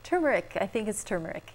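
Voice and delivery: turmeric as "TUR-mer-ik", R sounded; correct R pronunciation. Shown as a demonstration. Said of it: "usually people leave out the R".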